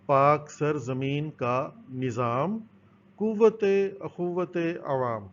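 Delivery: slow, measured anthem recitation; reciting a verse. Shown as a demonstration. Teacher recites the national anthem verse to pupils, slow and measured. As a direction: recite the line slowly and evenly. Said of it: "اس میں ایک شعر ہے،".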